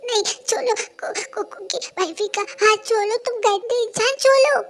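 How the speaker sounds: high, loud furious yelling building to a scream; enraged yells rising to a shriek; furious shout. Acted. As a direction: scream at him to let go. Husband fighting the attacker.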